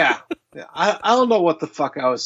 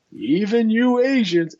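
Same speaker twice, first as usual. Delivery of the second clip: mock deadpan quote; 7 semitones higher than usual. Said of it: "it's the delivery".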